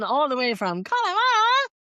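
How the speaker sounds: high, hammed-up Connemara sign-off; mock Connemara accent. Signing off for herself and co-host, mock Connemara accent. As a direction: rise into a stagey Connemara accent.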